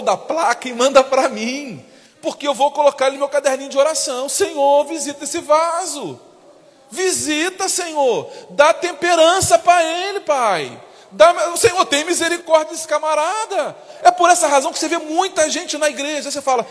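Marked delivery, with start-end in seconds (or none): 4.3-13.8 higher, pleading prayer voice; a hint of fervent intercession; mock prayer. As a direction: pray half-jokingly for the rude driver. Mock prayer for bad driver.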